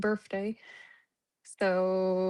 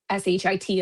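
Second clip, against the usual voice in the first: spelling it out; 3 semitones lower, 3 dB louder than usual. Real, not acted. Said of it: "I got a potty mouth".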